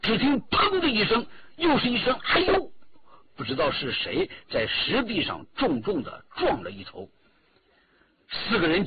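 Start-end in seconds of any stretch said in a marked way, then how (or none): 2.2-2.7 yelp. A narrator's reading. Someone hits the stone wall.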